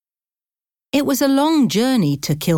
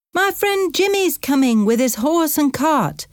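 higher-pitched Irish taxi driver; Irish accent; 10 semitones higher than usual. A narrator's reading. Taxi driver explaining to a puzzled passenger, in an Irish accent. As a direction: explain it in a high Irish lilt. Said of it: "the driver's Irish accent".

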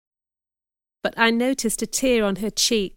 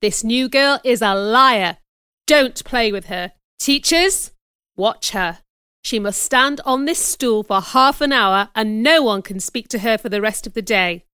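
raised, emphatic public warning; stern denunciation; 4 dB louder than usual. Acted. Man warning children and teachers about a liar, stern and emphatic. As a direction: denounce her firmly to the whole room. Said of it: "he continued".

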